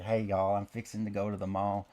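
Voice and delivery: imitating a childhood Oklahoma twang; goofy Oklahoma accent. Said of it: "that goofy accent".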